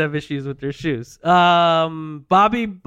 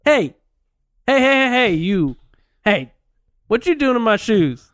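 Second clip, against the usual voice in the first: put-on a raised Italian-accented shout at the shoe thieves; hammed-up Italian accent, pitched up and pushed; Fabrice voice; 5 semitones higher than usual. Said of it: "He go like this. He talk".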